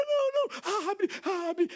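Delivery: put-on high, wailing child begging; mock tearful girl; pleading daughter. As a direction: imitate the daughter crying not to cover it.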